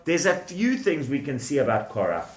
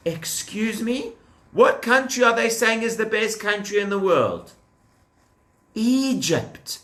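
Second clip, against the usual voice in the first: higher, raised voice of disbelief; mock disbelief; 6 semitones higher than usual. Teacher acts shocked at the rebels' claim to the children. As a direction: act shocked for the kids.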